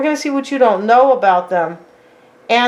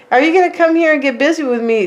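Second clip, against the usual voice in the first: a quick, higher, teasing come-on line; tossing off a cheeky invitation, quick and pitched up; flirty come-on; 4 semitones higher, faster than usual. Retold or imitated. Third party tempting a partner away, quick and teasing. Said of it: "how people would talk like that".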